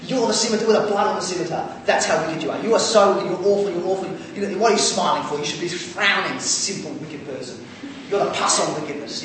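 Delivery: mock hellfire preacher berating the congregation; fired-up preacher. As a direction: ham up a ranting preacher. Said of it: "some preachers get fired up and go".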